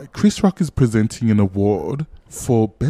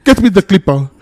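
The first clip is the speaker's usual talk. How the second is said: put-on Russian accent; 8 semitones higher, 10 dB louder than usual. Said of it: "From my Russian accent?".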